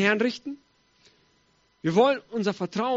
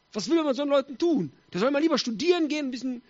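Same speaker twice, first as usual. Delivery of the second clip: higher, mocking complaint; envious grumbling; 4 semitones higher than usual. Jealous advisers about praying Daniel, scornfully.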